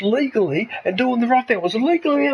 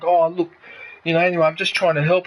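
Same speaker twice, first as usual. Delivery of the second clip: imitating him backing down, slightly lower; calmed-down voice; 4 semitones lower than usual. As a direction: mildly mimic a man trying to placate. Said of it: "he calmed down his voice".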